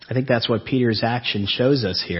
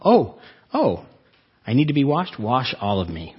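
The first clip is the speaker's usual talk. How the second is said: eager overcorrection. Retold or imitated. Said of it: "another noble".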